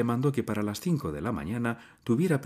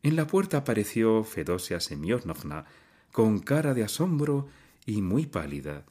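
ordinary delivery, nothing marked

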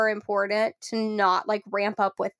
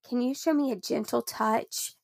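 gentle invitation; 3 semitones higher, 3 dB quieter than usual. Shown as a demonstration. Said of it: "What do you do?".

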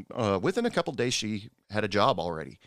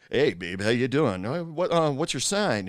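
mock pick-up lines; 4 semitones higher than usual. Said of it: "they start hitting on 'em".

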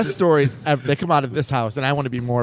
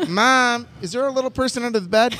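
put-on higher worried kid; scared child voice; 7 semitones higher than usual. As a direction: ask like a frightened boy. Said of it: "And he goes".

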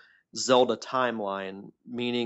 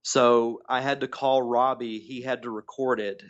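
tinny phone line; calling in over the phone; tin can phone sound. Real, not acted. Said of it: "sounds like he's in a tin can".

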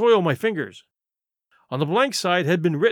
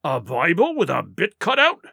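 derisive. Acted. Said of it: "returned Silver derisively".

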